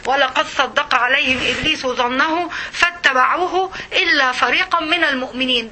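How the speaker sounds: slow, measured recitation; Quran recitation. Acted. The teacher quoting scripture to her students, slow recital. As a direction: recite the verse with reverence.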